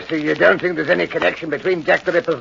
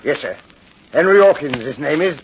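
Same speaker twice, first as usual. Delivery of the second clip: a lightly voiced London corporal, dropping the h in Hawkins; brisk, dutiful corporal's voice; police corporal; 4 semitones lower than usual. Corporal names the husband.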